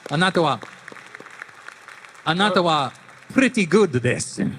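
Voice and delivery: hammed-up Snake Japanese. Shown as a demonstration. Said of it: "say something in Japanese in Snake's voice".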